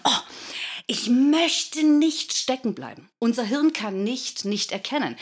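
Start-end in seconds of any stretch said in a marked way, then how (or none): 0.0-3.1 anxious worry. Retold or imitated. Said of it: "wenn wir sagen".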